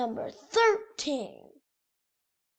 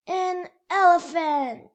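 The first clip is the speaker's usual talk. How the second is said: big reveal; 3 semitones higher, 5 dB louder than usual. Acted. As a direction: land the answer with a flourish.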